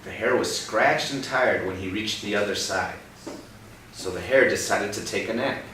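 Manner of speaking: put-on reading a picture book to a child; gentle read-aloud for a young listener; story reading. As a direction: tell it like a storybook.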